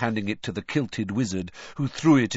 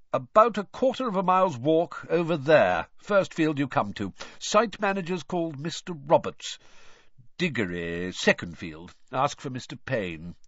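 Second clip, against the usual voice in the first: tired wizard giving directions; lightly voiced weary man; weary official; 5 semitones higher than usual. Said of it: "said Basil wearily".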